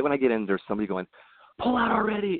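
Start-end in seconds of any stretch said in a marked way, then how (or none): 1.6-2.4 mild mock yell from the next car; retold yell. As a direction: imitate an impatient driver's shout. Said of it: "And they're yelling".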